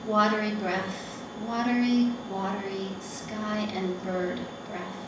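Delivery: measured poem recital with long pauses; poetry reading. Acted. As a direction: read each short line slowly, leaving space after it. Reads her poem aloud.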